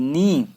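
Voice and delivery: नी starting on N; silent K. Shown as a demonstration. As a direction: say नी as "nee", no K. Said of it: "के silent है".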